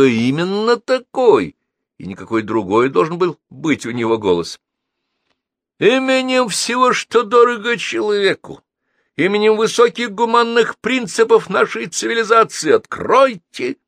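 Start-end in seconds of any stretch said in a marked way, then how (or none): 5.8-13.8 high, loud, solemn threat; grim, pompous command to open up; menacing demand. A narrator's reading. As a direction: thunder it at the door like an ultimatum. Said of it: "грозно сказал Геннадий".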